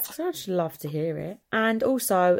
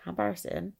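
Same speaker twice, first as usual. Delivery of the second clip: embarrassed inner thought; 5 dB quieter, faster than usual. Retold or imitated. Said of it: "I walk away and I think".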